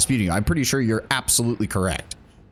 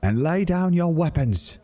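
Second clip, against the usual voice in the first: stern enforcer, opening high and commanding; enforcer commands; 4 semitones higher than usual. Acted. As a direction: order the criminals to surrender. Enforcers storm the bar.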